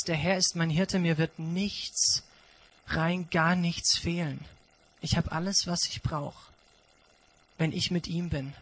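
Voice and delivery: hushed reverent psalm; quiet psalm recitation. Acted. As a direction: recite the psalm softly, savouring it. Preacher quotes Psalm 23.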